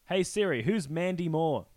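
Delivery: slow, careful command to phone; talking to Siri. Real, not acted. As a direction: enunciate slowly for the voice assistant. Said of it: "speaking to phone assistant".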